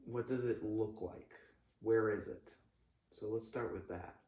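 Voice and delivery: gently walk them through the feeling; calm crisis counselor. Acted. Leads a visualization.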